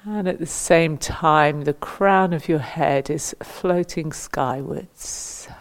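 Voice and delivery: measured meditation guidance with long pauses between instructions; guided meditation. Acted. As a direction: guide them gently into standing stillness, phrase by phrase. Leads standing body-awareness meditation.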